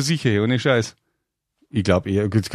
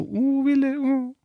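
higher, breathy swoon over Wille; swooning fangirl; 9 semitones higher, 4 dB quieter, much slower than usual. Retold or imitated. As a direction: sigh his name like a teen fan. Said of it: "ganz Mädels so".

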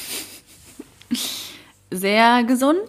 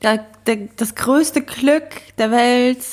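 mocking gushing cliché; 3 semitones higher than usual. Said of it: "dieses klischeemäßige".

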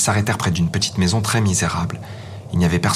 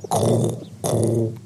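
cooing pigeons; 4 semitones higher than usual. Acted. Wood pigeons speak.

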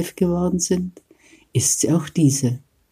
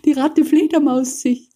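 higher still, laughing through it; laughing bats' cry; 11 semitones higher than usual. A narrator's reading. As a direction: giggle the chant even higher. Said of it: "riefen alle Fledermäuse".

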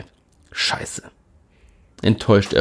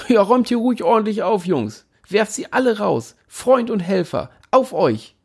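sarcastic cheer; 11 semitones higher than usual. A narrator's reading. Narrator imagining police raid.

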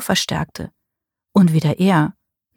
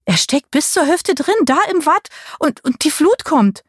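urgent pleading; 9 semitones higher than usual. A narrator's reading.

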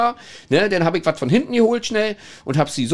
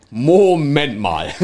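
laughing; much slower than usual. Real, not acted. Realizing what happened in the toilet.

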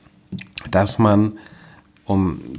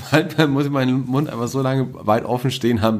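laughing; 4 semitones higher than usual. Real, not acted. Laughing at partner's yawning.

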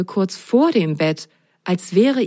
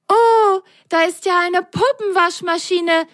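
delighted cry; 12 semitones higher than usual. A narrator's reading. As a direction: cry out in utter delight, high-pitched. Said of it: "Völlig entzückt rief Lili laut".

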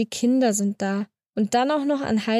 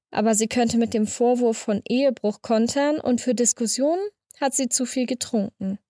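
ordinary delivery

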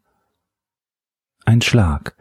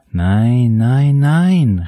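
silent cry; 5 semitones higher, much slower than usual. A narrator's reading. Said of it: "rief sie stumm".

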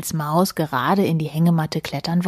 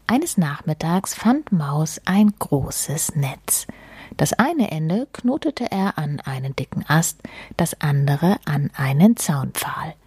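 unhurried, measured storytelling; story narration. A narrator's reading. Reading a picture-book story to listeners, unhurried narration.

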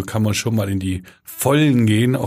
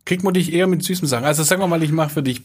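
laughing; 7 semitones higher, faster than usual. Real, not acted. Teasing question, laughing.

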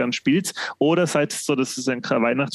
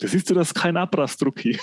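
son's voice; 5 semitones higher than usual. Retold or imitated. Son quoted in a story.

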